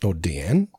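Deanne said as dee-AN; alternative pronunciation. Shown as a demonstration. Co-host guessing an actor's name, Deanne as dee-AN. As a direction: say "Deanne" with a short A ending. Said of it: "however he pronounces his name".

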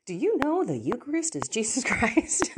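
playfully buttonhole a stranger, breaking into a laugh; mock accosting. Pulling a stranger aside in the grocery store, mock eager. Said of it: "pull someone aside in the grocery store and say".

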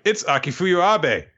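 high-pitched mock amazement; awed announcement, imitated. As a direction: gasp the name like a starstruck fan. Awed character names the famous hunter.

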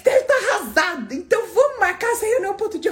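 mock her fake sympathy, speeding up at the end; pitying friend. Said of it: "Aí ela falou assim".

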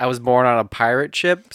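tongue-held, blurred consonants; holding tongue with fingers. Shown as a demonstration. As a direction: speak around a pinched tongue. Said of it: "Sounds like I was born on a pile of shit".

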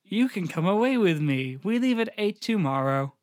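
stilted, wooden line reading; flat film girlfriend. Acted. Co-host as girlfriend making plans with boyfriend, wooden. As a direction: parody bad film acting. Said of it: "that's exactly how they talk".

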